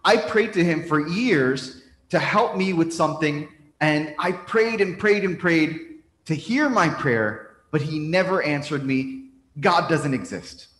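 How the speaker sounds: emphatic retort. Acted. Man tells priest his prayers went unanswered, emphatic retort. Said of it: "The man retorts".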